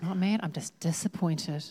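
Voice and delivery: low, mock parental let-down; understated parental reproach; disappointed parent. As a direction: lightly imitate a disappointed parent, pitch dropped. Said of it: "As a parent?".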